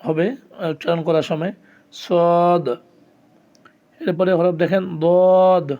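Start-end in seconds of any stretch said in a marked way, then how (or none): 1.9-2.6 emphatic Arabic sad; rounded sad. Shown as a demonstration. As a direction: round the mouth on সদ. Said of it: "মুখটা একটু গোল".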